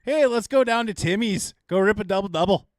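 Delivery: put-on light Canadian accent, casual and friendly. Canadian inviting a friend to Timmy's, lightly accented. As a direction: toss off a breezy Canadian Tim Hortons run. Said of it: "The Canadian version".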